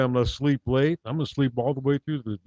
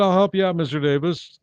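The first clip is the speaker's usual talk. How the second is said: put-on eager kid; 5 semitones higher, 4 dB louder than usual. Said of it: "I said".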